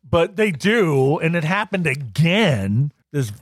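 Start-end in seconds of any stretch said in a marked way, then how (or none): 3.1-3.3 slow, drawn-out mock fury; hammed-up indignation; mock outrage. Mock outrage at helpful woman.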